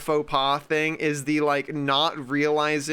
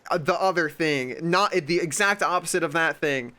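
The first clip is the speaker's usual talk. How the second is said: higher, pushy know-it-all correction; mock contrarian; 3 semitones higher than usual. Someone butting in to contradict, mock pushy. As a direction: imitate a smug contrarian butting in. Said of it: "somebody comes along to be like".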